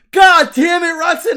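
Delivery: high, anguished angry shout; Kevin. Retold or imitated. Man acting Kevin dropping to his knees, pained furious yelling. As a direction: yell the curse as if just punched. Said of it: "he drops to his knees".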